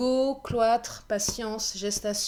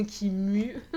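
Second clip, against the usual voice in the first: cracking voice; 4 dB louder than usual. Real, not acted. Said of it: "malgré ma voix".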